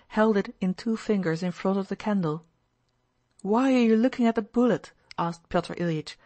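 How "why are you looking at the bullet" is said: uneasy curiosity. A narrator's reading. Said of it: "with uneasy curiosity".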